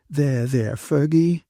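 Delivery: gently soothing; comforting. A narrator's reading. Catherine puts her arm round Fergie, comforting. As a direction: console a crying friend. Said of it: "Catherine comforted her".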